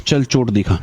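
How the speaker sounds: low, curt order to show it; angry teacher. Retold or imitated. Teacher calls the bluff on the injury, low and curt. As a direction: play the fed-up teacher, low and short. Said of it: "पर ma'am गुस्से में थी".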